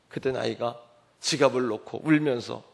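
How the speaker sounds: normal talking voice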